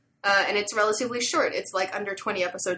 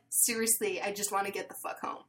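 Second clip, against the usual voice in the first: weary mutter; 9 dB quieter than usual. Retold or imitated. Tired shop guy brushes her off.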